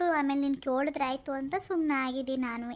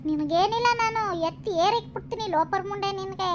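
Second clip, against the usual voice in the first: angry retort. Acted. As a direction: spit the curses back at her. Village women quarrel, insult traded.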